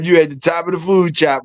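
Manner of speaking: high excited teasing; playful hype call; hyped praise. Real, not acted. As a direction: pump him up, tease him.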